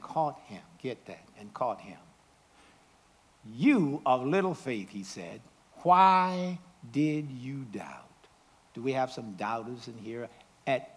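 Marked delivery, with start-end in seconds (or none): 3.4-8.1 gentle rebuke. Acted. Jesus rebukes Peter gently.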